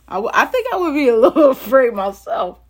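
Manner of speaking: laughing aside. Real, not acted. Preacher admitting own fear to listeners, laughing aside. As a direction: break into laughter while confessing. Amused aside on walking on water.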